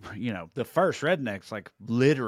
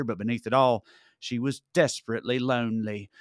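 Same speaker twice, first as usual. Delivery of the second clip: measured, dramatic promo narration; podcast ad read. Acted. Host pitching a podcast about royals to listeners, ad read. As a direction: sell the royal intrigue with drawn-out key phrases.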